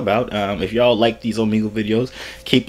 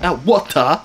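mocking imitation; 5 semitones higher than usual. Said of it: "You're like".

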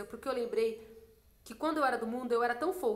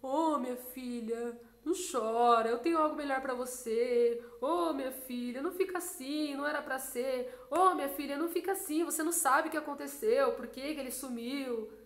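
soothing comforter. Retold or imitated. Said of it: "em vez do Espírito Santo vir assim".

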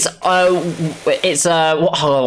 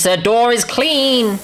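slow, high exclamation; playful celebration; 6 semitones higher, slower than usual. Pretend. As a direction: announce it in drawn-out triumph. Celebrates, first take.

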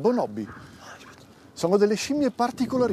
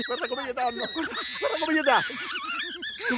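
much higher, slow, gleeful; leering excitement; 9 semitones higher than usual. Acted. Inspector ogling the apes. (eccitazione maliziosa, molto acuta e lenta)

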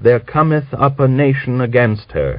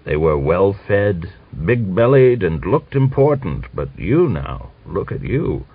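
higher mocking old man's scorn; old man mocking Grigor's muddy coat; scornful; 6 semitones higher, 3 dB louder than usual. A narrator's reading. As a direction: jeer at the shabby general.

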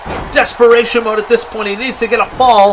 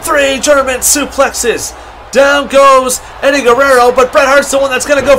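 wrestling commentator; 2 semitones higher than usual. Acted. Live wrestling play-by-play.

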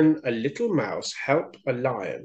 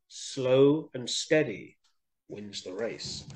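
calm moral; 5 dB quieter, slower than usual. Shown as a demonstration. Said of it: "what the moral ... is".

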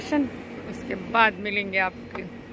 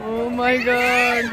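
amazed; 4 dB louder, much slower than usual. Real, not acted. Reacting to swinging ride.

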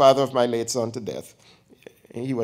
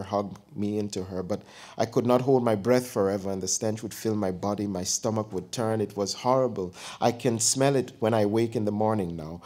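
faraway, subdued tone; distant voice. Acted. Dying aunt telling Kofi about the vultures, faraway voice. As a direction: speak as if from far away. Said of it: "Her voice came from far away".

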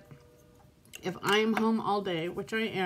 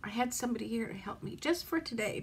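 softer, tearful plea; barely getting the words out through tears; crying softly; 8 dB quieter, faster than usual. Real, not acted. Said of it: "sit here and cry on camera".

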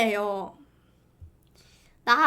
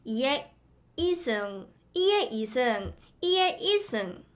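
put-on Gyeongsang accent drilling the vowel; testing a Gyeongsang dialect test phrase; Gyeongsang-style drill. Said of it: "이거 시켜봤단 말이야".

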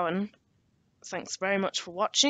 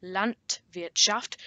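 slow, careful repeat; slower; much slower than usual. Shown as a demonstration. Teacher repeats the second German word for learners, slower. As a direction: say it slowly and distinctly. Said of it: "I'll say it a bit slower".

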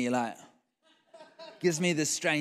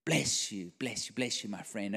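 softly soothing, trailing quieter; hushed blessing; 5 semitones lower, 5 dB quieter than usual. Retold or imitated. Pastor to the crying waiter, softly soothing. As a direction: bless him gently to send him on his way.

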